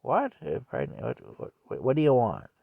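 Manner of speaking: imitating baffled questions, pitch jumping up on "What"; retold dumbfounded. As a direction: stammer "what" as if lost. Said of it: "I'd be looking at him dumbfounded".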